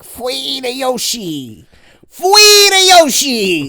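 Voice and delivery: high, slow, squeaky dog voice; cartoon dog. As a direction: voice the dog begging for food. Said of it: "do the voice".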